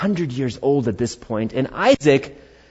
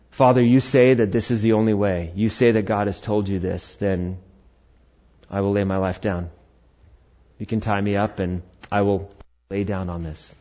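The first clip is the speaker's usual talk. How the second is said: calm submission; 4 semitones lower than usual. Acted. Voices Isaac willingly submitting to father.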